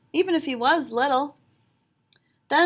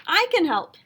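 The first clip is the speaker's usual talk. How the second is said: higher, louder call over the crowd; extra loud shout; 7 semitones higher, 5 dB louder than usual. A narrator's reading. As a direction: shout it out so everyone hears. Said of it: "Liam shouted extra loud".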